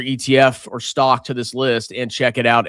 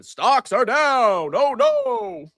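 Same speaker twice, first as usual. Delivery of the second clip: mock panic; 10 semitones higher, slower than usual. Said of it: "I'm panicking right now".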